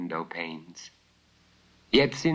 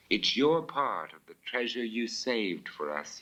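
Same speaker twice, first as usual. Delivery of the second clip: warmly. Acted. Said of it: "he said warmly".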